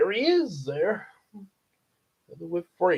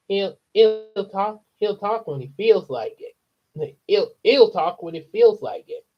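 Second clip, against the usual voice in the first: put-on higher-pitched little kid; lightly voiced boy, higher than usual; childhood voice; 5 semitones higher than usual. Fred explains his parrot to Matilda, lightly childlike voice. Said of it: "sound like how I sounded as a kid".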